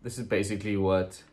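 a loud, hammed-up TV host tour; MTV Cribs host. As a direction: show off the base like a celebrity host. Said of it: "M T V, welcome to my crib".

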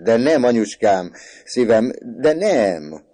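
high, loud, drawn-out denial; pleading protest. A narrator's reading. Son protesting to his laughing mother, pleading protest. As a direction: plead loudly, stretching the last no.

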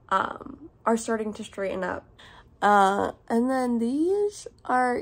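speaking while stretching lips; lips pulled apart by fingers. Real, not acted. Seen 1: Pulls lips apart showing braces; brief release around 1.1-2.0s.

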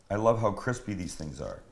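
crunching a bite while talking; crunching chips. Real, not acted. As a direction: talk over a crunchy mouthful. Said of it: "You can hear the crunch through your microphone".

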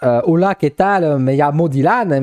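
put-on hesitant Spanish with a French learner's accent; mock beginner Spanish introduction; schoolboy Spanish. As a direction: recite basic Spanish like a struggling pupil. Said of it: "alors imaginez bien en espagnol".

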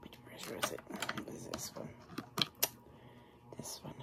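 hushed whisper to herself. Real, not acted. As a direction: whisper it as you search. Whispers while looking for brush.

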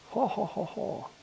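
high, soft mock villain laugh; a hammed-up evil ho-ho chuckle. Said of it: "Insertar aquí risa maligna".

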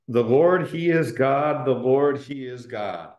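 mild crowd shout, punched on each Lord; half-voiced shout, dropping away at the end; retold shout. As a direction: proclaim it like a chanting crowd, without full force. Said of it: "They're shouting out".

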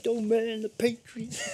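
thick mock Boston accent, slow and high; hammed-up Boston drawl with a laugh. Gamer doing a laughing Boston accent for his friends. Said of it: "That was a great Boston accent".

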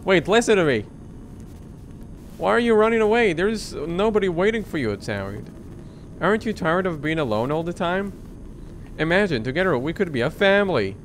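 pleading voice calling after her; urgent pleading. Acted. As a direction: beg her to stay. Killer pleading with fleeing girl.

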